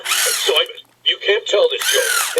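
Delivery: high-pitched, drawn-out objection; scandalized protest. Acted. Max stops Simon's dirty joke, scandalized protest. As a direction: cut in, appalled, voice pitched high.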